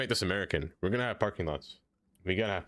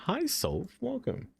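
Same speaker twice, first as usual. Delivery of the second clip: mock greeting; 13 semitones higher, slower than usual. Greeting viewer in put-on voice.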